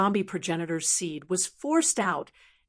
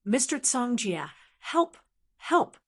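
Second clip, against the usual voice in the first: desperate cry for help; 3 semitones higher than usual. Acted. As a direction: beg for help, voice rising. Weakened man begging for help.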